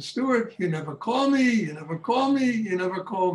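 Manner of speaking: lightly voiced mother harping on him; nagging mother. Son retells mother's nagging call.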